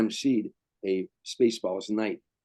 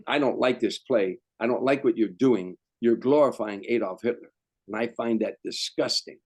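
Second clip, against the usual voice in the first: emphatic, louder voice of an outraged theatregoer; indignant complaint; 4 dB louder than usual. Retold or imitated. Offended man confronting the playwright in the lobby, indignant. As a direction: lay down each objection firmly, imitating indignation.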